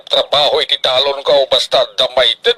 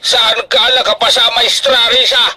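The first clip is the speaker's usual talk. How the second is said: shocked question; 6 semitones higher than usual. Acted. Father learns she failed.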